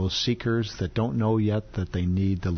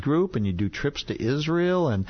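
higher-pitched impressed visitor; mock amazement; 5 semitones higher than usual. Visitor wowed by the mall ministry, mildly amazed. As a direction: lightly act out a wowed newcomer.

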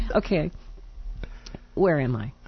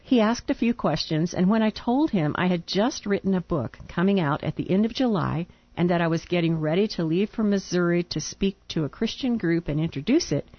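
reading a letter aloud. Real, not acted.

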